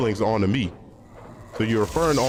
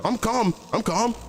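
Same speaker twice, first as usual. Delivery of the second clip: much higher and slow, a strained mock "I'm calm"; mock insisting calm; 10 semitones higher, slower than usual. Mocking a worked-up friend who claims he's calm, high and slow. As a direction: play the friend who's clearly not calm, pitched up and drawn out.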